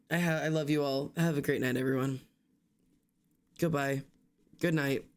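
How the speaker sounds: usual speaking voice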